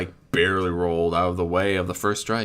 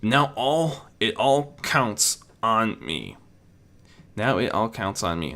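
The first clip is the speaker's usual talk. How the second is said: Spike steeling himself; 2 semitones higher than usual. Acted. Spike facing a larger creature, resolved. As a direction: set the jaw and say it slowly.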